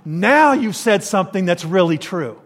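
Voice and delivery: pointed sarcasm, leaning on "Now"; dry mock congratulation, imitating a retort; sarcastic. Jesus answering the woman at the well, mildly sarcastic. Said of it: "it's a very sarcastic response".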